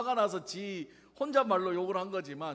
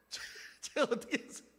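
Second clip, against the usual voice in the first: ordinary talk, nothing marked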